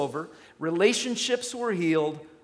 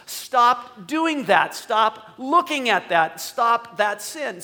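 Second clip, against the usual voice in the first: God commanding; 3 semitones higher, 5 dB louder than usual. Acted. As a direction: speak as God ordering a change of life. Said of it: "where God's going".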